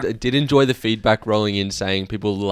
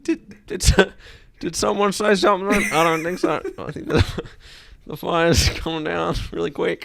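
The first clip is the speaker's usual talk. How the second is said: high, put-on dithering voice; hammed-up "didn't hear a thing" act; feigned obliviousness; 8 semitones higher than usual. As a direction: play dumb in a raised voice, half laughing. Acts parent feigning not to hear.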